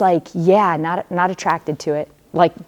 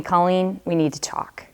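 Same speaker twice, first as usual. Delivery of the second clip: a hint of a serious mother, quietly; stern mom voice; 6 dB quieter than usual. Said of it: "I knew that voice".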